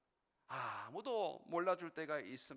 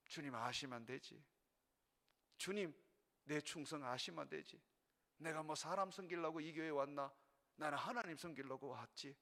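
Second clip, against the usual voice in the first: quiet resolve; 4 semitones lower, 5 dB quieter than usual. Retold or imitated. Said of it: "inner resolve spoken to self".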